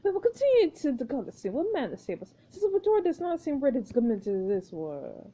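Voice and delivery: lightly voiced imperious director; a touch of director's exasperation; scolding film director. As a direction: tell off an assistant, stiffly formal. Plays Marcus dismissing Victoria.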